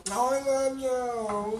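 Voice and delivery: be the teddy bear that talks when hugged; lightly done squeeze-toy voice; squeezed teddy bear. Retold or imitated. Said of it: "the big bears you squeeze and they go".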